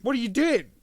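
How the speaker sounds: mock frantic yell; frantic shout. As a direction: scream it at someone about to quit. Watcher yelling at Hawkeye.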